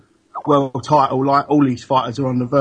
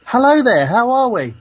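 higher, louder polite phone greeting; telephone voice; 7 semitones higher, 4 dB louder than usual. Pretend. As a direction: put on your posh ringing-up voice. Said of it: "this is my telephone voice".

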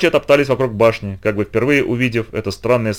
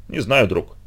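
drowsy, nodding off; sleepy voice; slower than usual. Acted. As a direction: answer half asleep. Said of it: "сонным голосом ответил тот".

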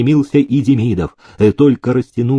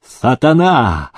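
slow, high incredulous fury; enraged master's outburst; infuriated; 5 semitones higher, much slower than usual. A narrator's reading. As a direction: rage with every word drawn out. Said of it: "взбесился Демидов".

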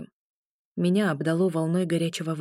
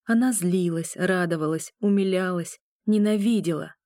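ordinary delivery

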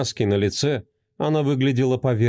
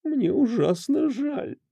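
tearful whisper; 13 semitones higher, slower than usual. Acted. A broken wife whispers her apology, tearful. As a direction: whisper it through tears. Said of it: "прошептала она".

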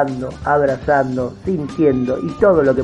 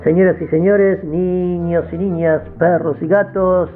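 ringmaster; 5 semitones higher than usual. Acted. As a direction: greet the crowd like a circus host. Circus-style greeting.

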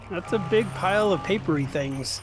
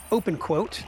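dictating. Real, not acted. Dictating code to the computer.

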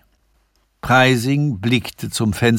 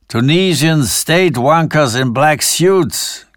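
cackling; 5 semitones higher, 3 dB louder than usual. A narrator's reading. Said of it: "gackerte Sanford".

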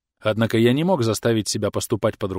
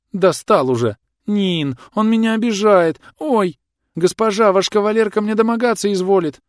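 high-pitched wailing protest; loud tattling complaint; 10 semitones higher, 5 dB louder than usual. A narrator's reading. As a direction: cry out to the mistress for help, high and loud. Mock complaint to the mistress.

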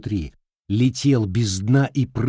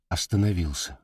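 ordinary delivery

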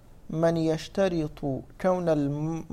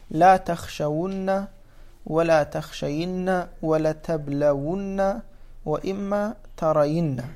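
slow quoted examples; slower than usual. Shown as a demonstration. Teacher reciting textbook examples to students, slowly. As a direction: read the examples slowly and clearly. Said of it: "مثل".

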